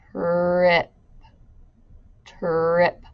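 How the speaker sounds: really slow, drawn-out delivery.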